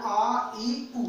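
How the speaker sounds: आ, ई, उ as long vowels, not short; separate, drawn-out आ, ई, उ. Shown as a demonstration. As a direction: give आ, ई, उ their full long length. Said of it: "छोटे नहीं होने चाहिए".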